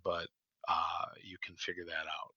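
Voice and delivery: hoarse, fading voice; raspy, worn-out voice; losing voice. Real, not acted. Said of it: "Sorry, I'm losing my voice".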